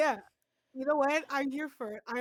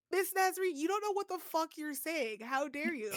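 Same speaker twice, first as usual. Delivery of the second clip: put-on high, outraged child voice; squeaky kids scolding the teacher; indignant kids; 6 semitones higher than usual. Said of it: "They're like, they're like".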